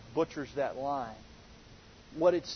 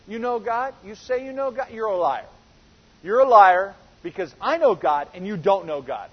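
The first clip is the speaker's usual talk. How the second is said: rising heat, ending in a louder jab at liar; confrontational accusation; 7 dB louder than usual. Retold or imitated. Preacher voicing a toe-to-toe quarrel, building to louder anger. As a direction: challenge him face to face, building to louder anger. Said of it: "imagine standing toe-to-toe with somebody and saying".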